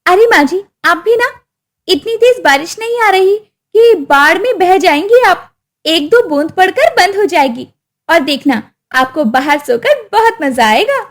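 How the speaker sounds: sly daughter-in-law. Acted. Daughter-in-law sending mother-in-law outside, falsely sweet. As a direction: sweeten the cruel plan. Wife dismissive.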